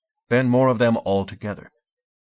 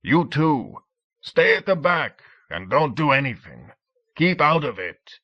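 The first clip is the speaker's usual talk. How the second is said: higher commanding shout; shouting across the waves; 6 semitones higher than usual. A narrator's reading. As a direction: bark orders from a distant boat. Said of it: "shouted across the waves".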